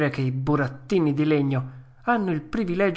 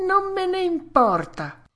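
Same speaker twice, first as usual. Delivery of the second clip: very high stubborn retort; defiant puppet. Acted. Puppet defying news of illness, high and stubborn. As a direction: dig in, pitched right up. Pinocchio defies the fairy again.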